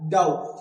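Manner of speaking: डाउट as "daut", no B; डाउट, straight from vowel to T; correct pronunciation. Shown as a demonstration. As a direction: punch out डाउट loudly with silent B. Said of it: "क्या बोलेंगे?".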